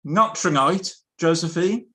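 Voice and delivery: high, loud exasperated outburst; impatient exclamation. Acted. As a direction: snap it out like a fed-up Napoleon. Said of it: "lost patience and exclaimed".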